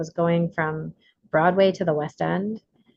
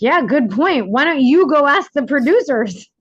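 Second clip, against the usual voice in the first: retold dare; 6 semitones higher, 6 dB louder than usual. Actors retold pushing the job back.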